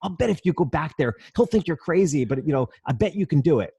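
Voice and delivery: retold pep talk, lifting the pitch; cheering her on. Customer coaxing a frustrated waitress to try, cheering her on. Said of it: "I was trying to cheer her on".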